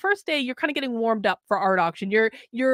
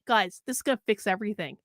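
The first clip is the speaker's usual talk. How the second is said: sarcastic. Acted. Mocking budgeting advice.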